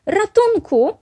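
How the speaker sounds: high, loud mock-panicked call; play-scared cry for help. A narrator's reading. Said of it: "zawołała Becia". (wysoki, głośny okrzyk o pomoc)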